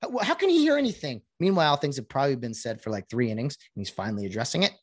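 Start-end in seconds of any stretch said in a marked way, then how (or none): 0.0-1.2 high mock-baffled broadcaster voice. Dumb broadcaster baffled by an umpire, high mocking voice. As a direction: play a clueless commentator, higher. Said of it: "The dumb broadcasters will be like".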